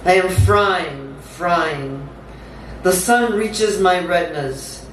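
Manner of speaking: measured, incantatory spoken-word delivery; dramatic poem read aloud; poetry reading. Acted. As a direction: recite it in deliberate phrases with pauses between.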